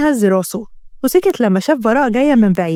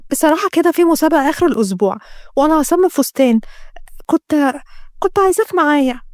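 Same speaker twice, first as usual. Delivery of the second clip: put-on a touch higher, hesitant girl; lightly voiced young woman; 3 semitones higher than usual. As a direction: lightly play a girl shyly asking. (صوت فتاة مترددة، أعلى قليلًا)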